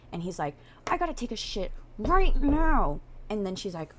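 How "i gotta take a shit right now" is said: high, strained mock urgency; urgent boyfriend. Boyfriend tells girlfriend he cannot wait, urgent and high. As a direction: blurt it out, desperate to go.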